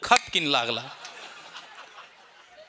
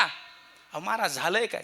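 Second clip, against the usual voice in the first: much softer slow plea; meek plea; 6 dB quieter than usual. Retold or imitated. Father-in-law softly pleads with the preacher.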